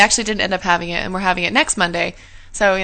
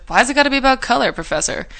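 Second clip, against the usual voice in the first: snide comment; 4 semitones higher than usual. Retold or imitated. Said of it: "kind of snide comment".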